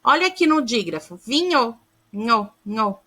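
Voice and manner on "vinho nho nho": vinho, then "nho" isolated twice as one blended sound; digraph as one sound. Shown as a demonstration. Teacher showing pupils a digraph, isolating its single sound. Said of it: "ele é o único som".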